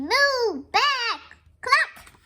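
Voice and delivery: loud, high farmyard animal noises; moo, bleat and cluck excitedly; high barnyard uproar; animal cries. Acted. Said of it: "mooing and banging and clucking".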